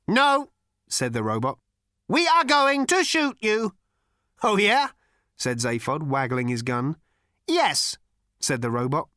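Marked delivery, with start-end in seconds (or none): 0.1-3.7 high, cold, lifeless ancient robot voice; cold cultured robot rasp. A narrator's reading. Robot threatens. 4.4-4.9 high, loud taunting oh yeah; cocky challenge. A narrator's reading. Zaphod challenges. 7.5-8.0 high, cold, lifeless ancient robot voice; cold cultured robot rasp. A narrator's reading. Robot answers.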